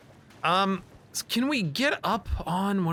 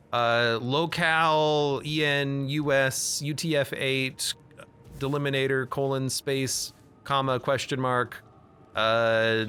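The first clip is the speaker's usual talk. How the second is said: slow, spelled-out computer dictation; dictating; slower than usual. Pretend. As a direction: read it out like typed code. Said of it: "it would be like".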